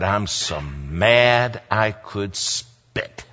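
slow, stretched-out simmering anger; imitated slow-burning anger; seething, retold. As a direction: draw out each word as the angry pastor. Repeats pastor's anger, drawn out.

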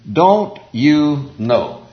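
very slow, each word set apart; simple, slow emphasis. Shown as a demonstration. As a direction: drive home each simple word slowly. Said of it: "I like to accent the simplicity".

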